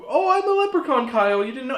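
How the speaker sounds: high squeaky leprechaun voice; a tiny leprechaun mom, voiced high and loud. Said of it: "she's, like, this big".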